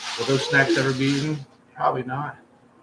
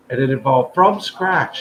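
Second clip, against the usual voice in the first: excited build-up; 2 semitones higher, 7 dB louder than usual. Real, not acted. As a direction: hype up the dish. Hyping the dish.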